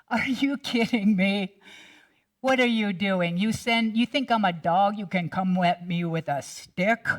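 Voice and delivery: mocking giant. Goliath mocking the boy.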